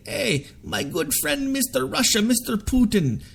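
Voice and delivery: lightly imitated plea, pitched well up; mock friendly plea. Imagined Iranian leaders asking Russia for help, mock friendly plea. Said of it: "all they've gotta do is say".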